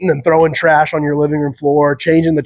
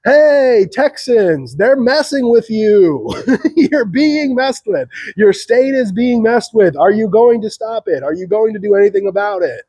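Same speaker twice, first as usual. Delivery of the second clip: higher, slow, calling out like Paul Revere; mock town crier yell; 5 semitones higher than usual. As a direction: rouse the town in a drawn-out shout. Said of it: "yelling in the streets".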